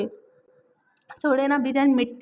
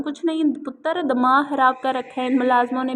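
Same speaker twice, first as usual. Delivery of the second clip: a touch of irritation, slightly louder; displeased; 4 dB louder than usual. Acted. Grandmother waves off her granddaughter's question, mildly irritated. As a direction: grumble it off with mild annoyance. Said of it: "नागुबारी से कहा".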